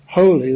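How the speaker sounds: "holy" lifted and firmly stressed; building emphasis. Shown as a demonstration. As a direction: give the last "holy" extra weight. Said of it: "there is more, uh, emphasis on the, the following words".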